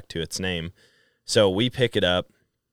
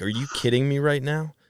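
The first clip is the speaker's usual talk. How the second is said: higher-pitched incredulous retort; mock disbelief; 8 semitones higher than usual. Son hears dad's dogs ate the chickens, acted incredulous. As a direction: act out stunned disbelief, pitch lifted.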